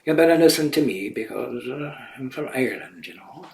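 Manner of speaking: a hint of an Irish accent, half-joking; light Irish accent. Shown as a demonstration. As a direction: put on a faint Irish lilt as a joke. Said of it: "perhaps maybe a little Irish accent".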